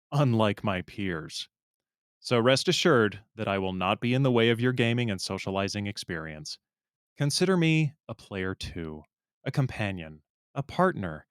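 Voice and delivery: earnest, measured read with deliberate pauses; serious dramatic reading. Acted. Reading a Discord suitor's message to a woman, mock-solemn and earnest. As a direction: read it in full seriousness, letting phrase endings drop. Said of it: "I'll read it seriously".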